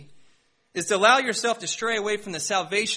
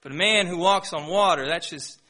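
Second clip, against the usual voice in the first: mocking picky believer; 2 semitones lower than usual. Churchgoer choosing Scripture like a menu, dismissive mock voice. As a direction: sneer at miracles like a bored skeptic. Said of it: "as if they can pick and choose".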